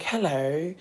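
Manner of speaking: put-on British accent. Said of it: "I was doing, like, a little British accent".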